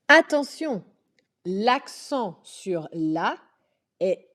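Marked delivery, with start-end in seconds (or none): 0.1-0.8 warning. Acted. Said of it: "teacher's warning call".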